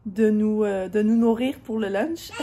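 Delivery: words breaking into laughter; laughing while telling it. Real, not acted. Laughing at her own chaos.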